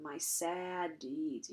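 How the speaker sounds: drawn-out mock-pouting sarcasm; heavy sarcasm. Pyrrhus taunting Priam about his deeds, heavy slow sarcasm. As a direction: stretch it slowly into a mock pout. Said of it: "here's where we get the heavy sarcasm".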